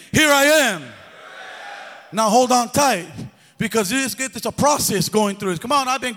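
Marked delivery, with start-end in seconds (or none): 0.1-0.8 declared with conviction, a bit louder; like you mean it. Shown as a demonstration. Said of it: "Say it like you mean it".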